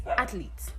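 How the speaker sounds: athlete said as ATH-leet, with two syllables; correct athlete. Shown as a demonstration. Teacher giving students the correct two-syllable athlete. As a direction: say athlete the right way, nothing added. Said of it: "You pronounce it that way".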